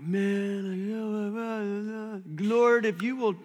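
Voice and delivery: hammed-up foxhole prayer; a lightly voiced desperate promise; mock desperate prayer. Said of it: "We're like".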